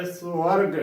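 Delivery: "ਸਵਰਗ" full as "swarg"; full-voiced pronunciation. Shown as a demonstration. Teacher repeats the word for learners, "ਸਵਰਗ" full as "swarg". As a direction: fill out "ਸਵਰਗ" with s and w joined. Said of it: "ਭਰ ਕੇ ਬੋਲਣਾ ਹੈ".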